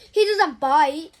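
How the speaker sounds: put-on slow reassuring child. A narrator's reading.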